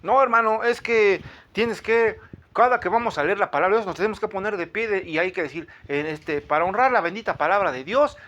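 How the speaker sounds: hammed-up scolding zealot; mock legalist brother. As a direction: lecture him like a strict legalist. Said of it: "me vuelvo legalista".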